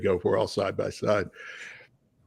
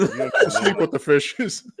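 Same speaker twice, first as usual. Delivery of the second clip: slow, laughing mob-boss threat; mobster voice; 8 semitones higher, much slower than usual. Pretend. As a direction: say it like a Mafia don, slow.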